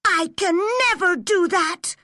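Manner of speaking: firm refusal. A narrator's reading. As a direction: dig in and refuse. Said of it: "said Anne firmly".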